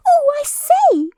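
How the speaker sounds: very high, slow flustered squeak; flustered Piglet. A narrator's reading. Piglet jumping up and down, fretting. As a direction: flap about like a small fretful pig. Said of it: "making noises".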